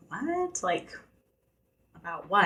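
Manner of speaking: a sudden squeak of disbelief, then confused; stunned what. Retold or imitated. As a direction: jump up high on a startled what. Confused reply to doctor's question.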